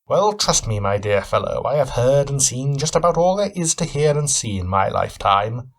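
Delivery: a hint of a keen, probing detective; Sherlock Holmes. Cabin owner sizing up his guest, lightly voiced shrewd questioning.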